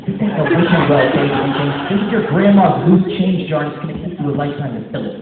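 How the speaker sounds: loud, high motivational yell; shouting coach. Acted. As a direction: bellow it like a drill coach. Coach yells motivational speech.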